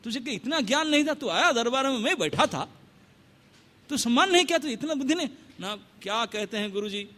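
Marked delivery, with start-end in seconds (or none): 0.0-5.3 higher, rapid rebuke; a sage scolding a foolish king; scolding guru. Acted. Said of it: "डांटे उसको".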